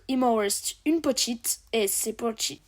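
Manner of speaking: put-on French with a light English accent. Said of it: "j'aime trop faire l'accent anglais".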